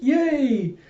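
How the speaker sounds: very high, stretched-out squeal of joy; childish cheer. Retold or imitated. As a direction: cheer it long, falling from high. Anya gets her cartoons.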